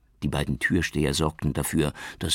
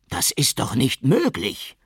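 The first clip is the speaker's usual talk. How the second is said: higher, louder, slow outraged cry; shouting; 10 semitones higher, 6 dB louder than usual. A narrator's reading. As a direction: burst out in disbelief. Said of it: "schrie Barudi".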